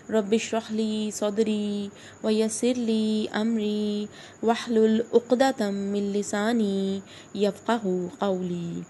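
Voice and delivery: slow, measured recitation with long-held vowels; drawn-out, careful tajweed delivery; Arabic prayer recitation. Real, not acted. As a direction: recite the opening supplication slowly and evenly. Recites greeting and opening prayers.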